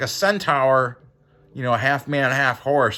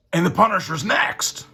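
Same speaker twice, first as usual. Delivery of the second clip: dramatic cover blurb; 8 semitones higher, 4 dB louder than usual. Acted.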